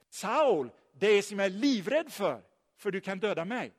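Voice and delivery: mildly acted alarm, as a counterexample; mock fearful address. What Ananias does not say to Saul, in mock fear. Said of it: "Han säger inte".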